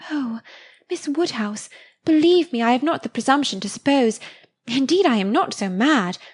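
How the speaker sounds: put-on a touch of breathless girlish awe; Harriet, flustered. Harriet protesting to Miss Woodhouse, lightly voiced girlish awe.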